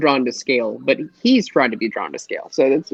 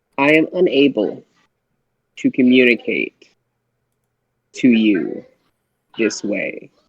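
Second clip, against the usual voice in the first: very slow, halting, broken-up words; 3 semitones lower than usual. The players hear Ponchi reply again, this time with a very slow sentence. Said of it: "You hear a very slow sentence".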